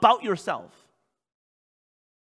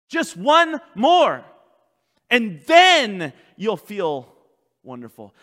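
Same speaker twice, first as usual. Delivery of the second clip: drawn-out, loud, high urging; slow, swelling push to give in; tempting Satan; 4 semitones higher, 10 dB louder, slower than usual. Acted. Satan urging the listener to give in, forceful tempting. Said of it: "he'll keep telling you".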